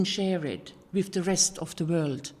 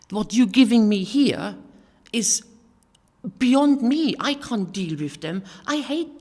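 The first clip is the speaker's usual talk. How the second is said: retold angry outburst; 2 semitones higher, 4 dB louder than usual. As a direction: rage at God as you tell it. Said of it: "I got so angry with God and said".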